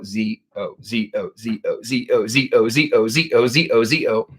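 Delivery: low, repetitive letter-by-letter recital; imitating spirit board. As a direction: drone the letters low, over and over. Mimics board spelling out letters.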